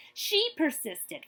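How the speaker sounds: slow, weighty stress on persisted; emphatic refrain. A narrator's reading. Reading a picture book to kids, slow emphatic refrain.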